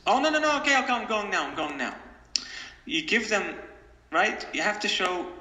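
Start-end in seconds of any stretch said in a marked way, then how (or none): 0.1-2.0 put-on child giving in. Father voices his child giving in to time out, whining then fading. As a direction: give in like a scolded child. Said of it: "child giving in".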